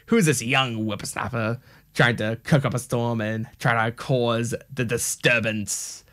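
lightly voiced old sinister emperor, slowing at the end; a hint of a scheming old villain hissing at the disturbance; Palpatine. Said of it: "I sound like Palpatine from Star Wars".

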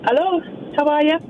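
put-on accent slipping into Irish on a greeting. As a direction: say hello with an Irish lilt. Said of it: "Jer, you've got an accent now".

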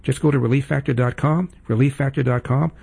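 brisk, upbeat sponsor read. Acted. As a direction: sell it like a radio spot. Host reads sponsor ad.

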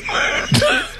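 breathy high laugh at himself. Real, not acted. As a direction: crack up at your own impression. Laughs at own impression.

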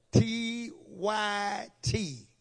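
each letter spaced out, deliberate; letter by letter, unhurried; slow spelled initials. Shown as a demonstration. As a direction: spell it out slowly for the congregation.

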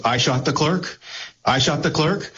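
rising, disbelieving New York repeat; incredulous question. Retold or imitated. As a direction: ask it like you can't believe the accusation. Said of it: "the intonation and your read on New York sarcasm, or disbelief and questioning".

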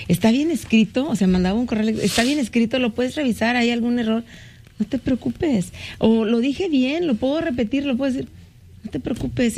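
high, worried asking for reassurance over and over; nervously begging a coworker to check every line; anxious pleading. Retold or imitated. To a coworker, asking him to check his email, high and anxious.

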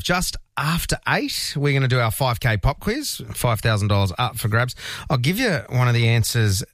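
upbeat breakfast radio host patter; radio announcer read. Acted. Radio host to morning listeners, upbeat announcer read. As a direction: sell the weather and the quiz to listeners.

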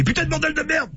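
put-on high-pitched caricature of a French accent; mock French accent. Joking about clichés of French people, mock French accent.

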